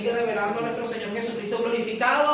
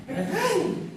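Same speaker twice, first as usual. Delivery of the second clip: mock yelp; 8 semitones higher than usual. Acted fright again.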